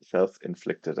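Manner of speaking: speaking around a swollen tongue; stumbling over words with a bitten tongue. Real, not acted. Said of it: "I can't speak".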